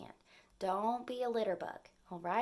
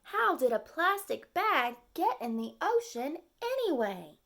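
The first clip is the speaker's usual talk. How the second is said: puzzled turtle; 5 semitones higher, 4 dB louder than usual. Acted. Turtle asks question in story.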